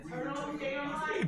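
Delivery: high soft quoting of wife; imitating wife. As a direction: mimic her telling him off. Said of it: "Babe, what do I say?".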